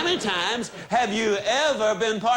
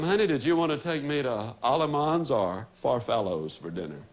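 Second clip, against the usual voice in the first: softening, lower-pitched sweet request; warm greeting; 6 semitones lower than usual. Acted. Wife greeting her husband as he walks in, warmly. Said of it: "you greet him warmly".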